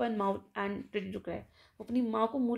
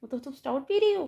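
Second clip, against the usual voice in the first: shocked surprise; 2 semitones higher, 4 dB louder than usual. Acted. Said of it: "आंखें लगभग बाहर आ जाती है".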